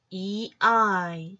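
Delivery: 이 아이 as two separate sounds, 이 then 아이; teacher sounding out 이 and 아이; pronunciation demo. Shown as a demonstration. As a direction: stretch 이 아이 slowly, sound by sound. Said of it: "이 발음".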